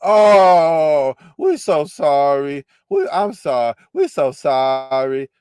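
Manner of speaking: slow, sarcastic "we so sorry"; mock apology. Host mocks the woman playing victim with a sarcastic apology. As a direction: drawl a fake apology. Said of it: "Oh, now you the victim now".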